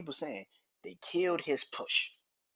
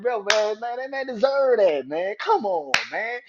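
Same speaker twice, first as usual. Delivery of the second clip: emotional outburst; 4 semitones higher, 6 dB louder than usual. Retold or imitated. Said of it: "I'm like".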